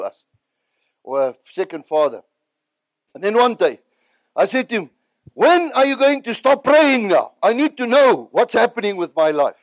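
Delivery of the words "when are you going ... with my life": impatient plea. Retold or imitated. Pleading with Reinhard.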